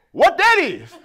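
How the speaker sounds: mock baffled question. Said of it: "Somebody said".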